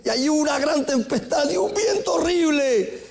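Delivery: high, ringing preaching cry; preaching storm. Acted. Preacher paints the terrible wind, crying out high.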